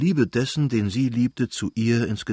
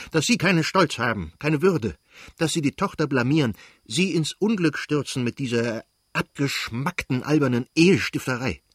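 angry scolding; 4 semitones higher than usual. Acted. Prince scolds his wife.

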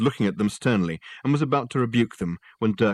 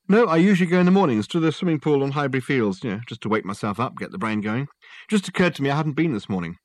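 Richard explaining; 5 semitones higher, 4 dB louder than usual. Acted.

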